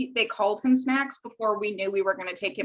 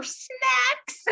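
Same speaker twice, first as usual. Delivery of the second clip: cutesy name reveal; 14 semitones higher than usual. Real, not acted. Naming the new kitten.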